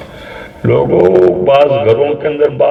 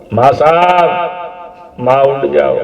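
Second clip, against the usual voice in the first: raised pleading call. Acted. Jesus calling out to his mother to wake, raised and pleading. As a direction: call to her as if she will answer.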